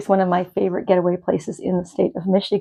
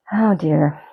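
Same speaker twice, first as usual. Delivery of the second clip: whispered; 3 semitones lower than usual. Real, not acted. Cat climbs onto the table.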